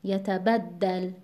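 یتبدل slowly, with "bad" stressed; yata-BAD-dal, drawn out, for یتبدل. Shown as a demonstration. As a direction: lean on the ب syllable of یتبدل.

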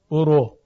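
thick, emphatic R in برو; برو with the R darkened and rounded; heavy R. Shown as a demonstration.

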